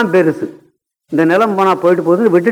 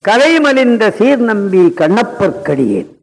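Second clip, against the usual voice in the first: slow verse recitation; slower than usual. Acted. Recites Tevaram verse again.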